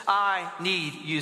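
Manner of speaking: slow, deliberate phrase for repeating; measured line for a crowd to echo; leading a recitation. Shown as a demonstration. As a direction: give each word its own space. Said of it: "Say that with me".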